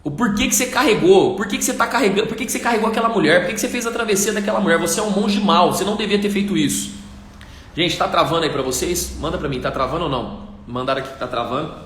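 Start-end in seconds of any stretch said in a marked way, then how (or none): 0.0-6.9 restless and fuming, he keeps accusing; indignant monk. Acted. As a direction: sleepless monk nagging his companion, higher. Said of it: "aquele monge indignado ... ele vira e fala assim".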